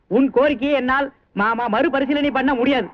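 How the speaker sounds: slow, lightly pompous pure Tamil; hint of stiff officialese; mock formal Tamil. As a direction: play at being a formal speaker, slowly. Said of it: "சுத்த தமிழ்ல சொல்லட்டுமா?".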